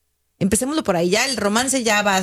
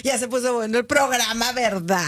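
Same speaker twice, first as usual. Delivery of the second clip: entre risas. Real, not acted. Ríe ante el chisme anunciado.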